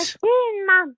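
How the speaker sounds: high, squeaky correction. Real, not acted. Caller putting radio host right about his name, high voice. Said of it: "you've got a really high voice".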